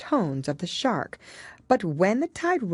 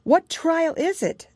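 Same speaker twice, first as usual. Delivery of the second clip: panting; 11 semitones higher, 4 dB louder than usual. A narrator's reading. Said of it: "Alice panted as she ran".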